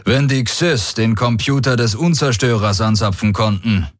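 lightly voiced warlord, assured and calm; a commander who knows he holds the cards; hint of a self-assured alien general; confident warlord. Warlord Daraios speaks.

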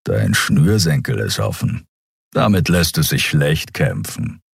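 low rumbling giant's voice. Acted. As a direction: rumble it down from a great height, amused. (tiefes Brummen des Riesen)

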